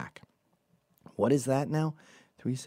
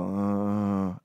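pained groan. Retold or imitated. Lying in bed hungover and in pain, drawn-out groan. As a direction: groan on and on, imitating hungover misery. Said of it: "all you can do is go".

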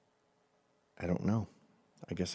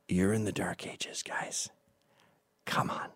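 hushed, conspiratorial aside; quiet teasing aside to Japan; whispered aside; 5 dB quieter than usual. Real, not acted. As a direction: lean in and whisper it. Mock scolding aside.

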